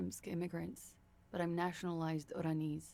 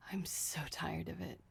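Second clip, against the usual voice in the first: weary whisper; 4 dB quieter than usual. Acted. Suspect confesses weariness.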